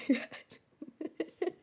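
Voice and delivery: slow, stunned whisper; very soft, voiceless gasp of words. Real, not acted. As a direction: whisper it slowly in disbelief. Stunned, breathless after laughing.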